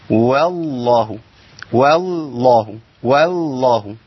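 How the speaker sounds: والله with the lam thinned, drawn out slowly; mocking wrong reading. Shown as a demonstration. Teacher imitating a student's mistaken light lam. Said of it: "أخونا بيعمل إيه".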